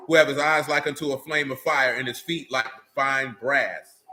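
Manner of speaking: scripture reading. Acted. Reads scripture aloud.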